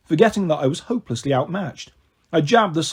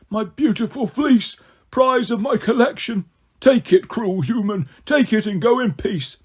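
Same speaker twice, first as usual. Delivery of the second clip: grudging Cyclops; 5 semitones higher than usual. A narrator's reading.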